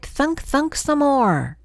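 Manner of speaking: slow high begging cry; pleading cry. Acted. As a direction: drag it out, willing it to happen. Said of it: "she cried".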